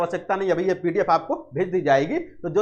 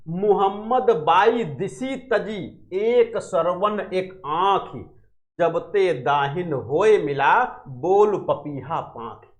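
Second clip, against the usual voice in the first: slow, chanting doha delivery; slow verse recitation; slower than usual. Acted. Teacher reciting Padmavat verse to students, slow chant. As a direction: lay out each half-line slowly like poetry.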